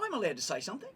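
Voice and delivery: high-pitched indignant retort. Retold or imitated. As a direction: stand on your rights, pitch soaring. Retold quarrel with flight attendant.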